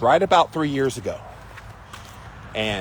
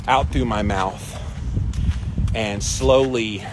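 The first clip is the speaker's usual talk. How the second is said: slow deep breathing pace; slower than usual. Shown as a demonstration. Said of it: "I will do this".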